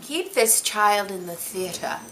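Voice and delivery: lightly voiced grand actress, stretching the last words; a touch of stagey grandeur, unhurried; grand theatrical Helen Hayes. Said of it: "she didn't really say it like that, but I want to say it like that".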